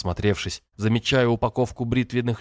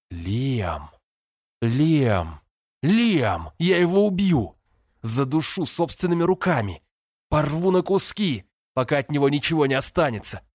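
от глухого «Лиам» к громкому яростному крику; нарастай до крика мести; ярость; 5 semitones higher than usual. A narrator's reading. Взрыв ярости. (брат в бешенстве грозит Лиаму, крича)

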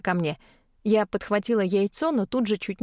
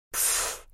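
unvoiced puff of steam; a soft dragon snort; smoky dragon breath; 8 dB quieter than usual. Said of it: "драконица выпустила целые клубы пара".

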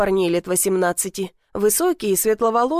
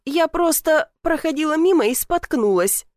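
higher-pitched, defensive excuse; indignant; 6 semitones higher than usual. A narrator's reading. Caught girl explains herself to the twins, indignant higher voice. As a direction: justify yourself, mildly affronted. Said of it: "возмутилась".

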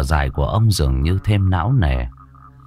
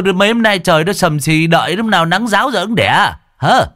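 dithering village neighbour; 7 semitones higher than usual. Acted. Neighbour puts off husband whose wife is in labour, dithering. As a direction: reel off excuses in a high, insistent voice.

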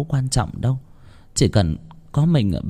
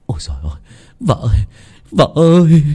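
panicked calls building from hushed to loud; shouting while running; 4 semitones higher, 3 dB louder, faster than usual. A narrator's reading. Ba Tửng runs home calling his wife, shouting. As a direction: start under the breath, end in a shout. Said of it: "Vừa chạy vừa hét".

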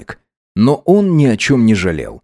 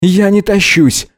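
higher, slow indignant retort; angry denial; 10 semitones higher, 3 dB louder than usual. A narrator's reading. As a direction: deny it with irritation. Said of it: "зло прищурился Гидеон". (зло, возмущённо)

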